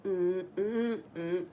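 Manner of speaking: high, slow sassy brush-off; dismissive sass. Retold or imitated. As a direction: wave the complaint away. Dismissing the cracked mirror.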